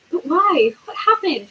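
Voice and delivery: urgently. A narrator's reading. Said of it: "Harry asked urgently".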